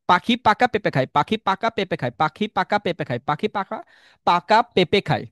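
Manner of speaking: পাখি পাকা পেঁপে খায় repeated smoothly in a row; tongue twister demo. Shown as a demonstration. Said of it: "পাঁচবার পড়ে শোনাতে".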